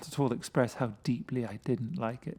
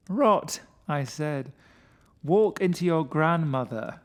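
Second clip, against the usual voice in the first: scoffing; 4 semitones higher, 5 dB louder, slower than usual. Acted. Winston scoffing at friend.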